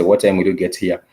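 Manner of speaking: English question with no lift on "here"; unchanged intonation. Shown as a demonstration. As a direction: keep "here" level, without a question rise. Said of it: "The intonation does not change".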